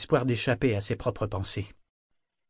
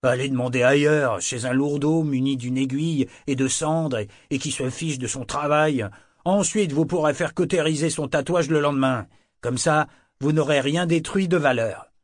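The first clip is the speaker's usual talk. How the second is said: angry rant, loud and raised; furious; 4 semitones higher, 5 dB louder than usual. Acted. Woken tattoo artist berating Kenit at his door, angry rant. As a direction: scold him sharply, louder and higher. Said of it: "d'un ton furieux".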